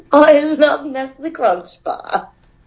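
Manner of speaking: slow, drawn-out British accent attempt; amused, lingering British imitation. Shown as a demonstration. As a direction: try the line in a careful British voice. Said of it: "I could do a British one".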